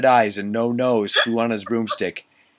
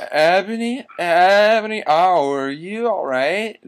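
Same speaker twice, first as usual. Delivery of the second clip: worried voice; 8 semitones higher, 4 dB louder than usual. Acted. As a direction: call out in hammed-up worry. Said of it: "asked Draco in a worried voice".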